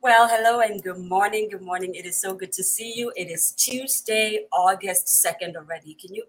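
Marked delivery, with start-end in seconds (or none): none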